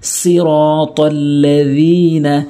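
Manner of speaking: slow, drawn-out recitation; recitation demo. Shown as a demonstration. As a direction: recite with long held vowels. Teacher models Quran recitation.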